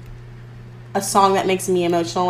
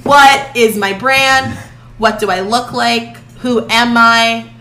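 mock existential questioning; 3 dB louder, slower than usual. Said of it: "and I was like".

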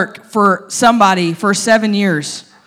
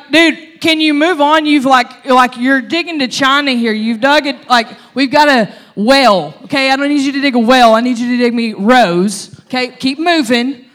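annoyed coworker; 5 dB louder than usual. Retold or imitated. Coworker in the field nags lovesick Jacob, loud and exasperated. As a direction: tell him to quit daydreaming and keep working.

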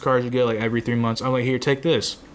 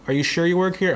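higher-pitched imitation of a sceptical woman; mock-doubtful question, pitched up; doubtful lady; 6 semitones higher, faster than usual. HR lady doubts new employee works there, imitated doubtful.

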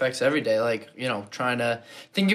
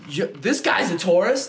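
attempted Jamaican accent; 3 semitones higher than usual. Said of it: "You almost tried to do that Jamaican accent".

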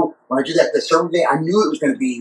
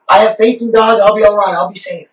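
stubborn believer; 7 semitones higher, 4 dB louder than usual. Retold or imitated. Stubborn believer voiced in joke.

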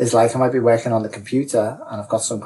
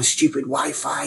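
drawn-out, slightly higher grumble; mild frustration; 4 semitones higher than usual. Acted. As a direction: grumble slowly at the useless Wi-Fi. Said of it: "getting more and more frustrated".

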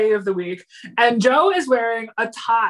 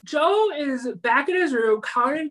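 yawning; 4 semitones higher, slower than usual. Real, not acted.

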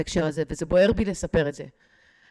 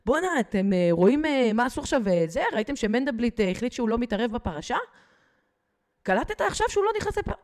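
mock buddy voice; 2 semitones higher than usual. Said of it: "פתאום ההוא אומר".

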